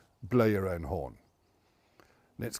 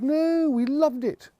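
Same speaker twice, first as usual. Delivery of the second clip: high, slow put-on voice quoting the audience; mock audience voice, much higher and slower; mock audience reply; 4 dB louder, slower than usual. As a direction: drag it out high like a sheepish listener. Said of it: "And they said".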